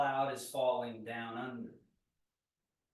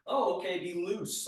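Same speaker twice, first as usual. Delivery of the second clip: careless mock loose; 4 semitones higher than usual. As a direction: toss it off like a sloppy student. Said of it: "like a, you know, totally out of control".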